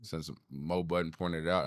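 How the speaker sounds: slightly raspy, hoarse voice; a touch of rasp in the throat. Real, not acted. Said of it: "how my voice sounds raspy".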